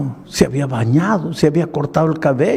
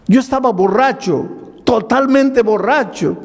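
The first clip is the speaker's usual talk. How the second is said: rising preaching; 7 semitones higher than usual. Acted. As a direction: swell up like a preacher at the pulpit. Preaches the man's story.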